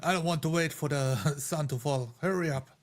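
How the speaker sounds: ordinary talk, nothing marked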